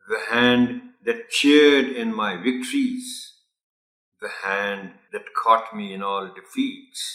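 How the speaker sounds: slow, measured reading with a steady rhythm; poem recital. Shown as a demonstration. Teacher reads the poem aloud to the children, slow rhythmic recital. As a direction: recite each line slowly and evenly, keeping the beat. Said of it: "I'm going to read it out for you".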